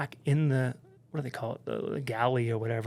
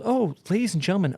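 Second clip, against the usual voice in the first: quick, higher-pitched mock cabin announcement; captain's announcement; 7 semitones higher, faster than usual. Captain to passengers after the fire, mock announcement. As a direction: lightly imitate a captain addressing passengers. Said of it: "captain goes".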